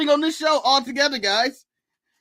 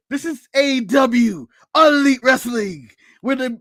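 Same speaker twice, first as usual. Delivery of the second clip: imitating Triple H. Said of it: "I'm doing the Triple H".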